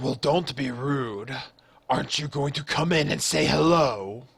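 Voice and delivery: rumbling, echoing voice, as from a cavern. The game master voices a creature calling to the players from a cave: loud rumbling dragon voice. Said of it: "loud, rumbling voice coming echoing from out the cave".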